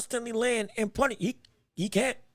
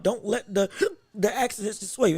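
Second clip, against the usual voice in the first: laughing. Real, not acted. Laughs while commentating.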